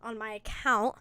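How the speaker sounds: loud, hammed-up attention-seeker voice; mock a show-off chasing followers; mocking clout chaser. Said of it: "Don't be one of those stupid people saying".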